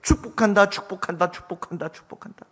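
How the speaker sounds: repeated call fading to a near whisper; mountain echo. Acted. Mountain returns the shouted blessing, fading echo. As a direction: echo that dies away into the distance. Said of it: "그 축복의 메아리를 들으며".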